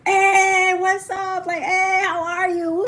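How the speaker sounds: high, loud, excited party greeting. Retold or imitated. Partygoers cheering as the dad walks in, high excited greeting. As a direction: greet him like the star of the party.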